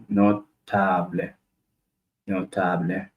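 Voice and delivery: notable said no-TA-ble, stress on the next-to-last syllable. Shown as a demonstration. Teacher shows learners the Spanish stress in notable, no-TA-ble. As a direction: lean on the TA of notable. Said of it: "on the next to the last syllable".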